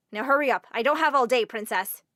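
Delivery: loud, impatient scolding; mean teacher. Acted. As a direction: snap at her to hurry. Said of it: "This teacher could be a real meanie".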